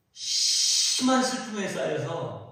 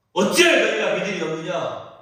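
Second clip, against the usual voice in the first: rebuke; 5 dB louder than usual. Retold or imitated. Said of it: "꾸짖으시는 거예요".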